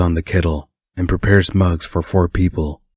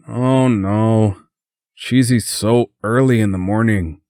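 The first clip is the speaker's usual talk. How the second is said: higher, drawn-out sleepy groan; groaning complaint; 4 semitones higher than usual. A narrator's reading. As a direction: groan it in mild morning protest. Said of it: "Brett groaned".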